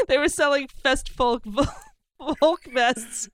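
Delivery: breaking into laughter mid-phrase; cracking up. Real, not acted. Comic attempting folk vests tongue twister, cracking up. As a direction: fight through giggles on a tongue twister.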